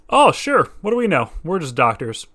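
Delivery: sarcastic doctors. Pretend.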